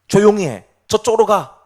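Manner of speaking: loud mock hushing; scolding. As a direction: bystander sharply shooing someone away. Acted bystanders hushing the blind beggar.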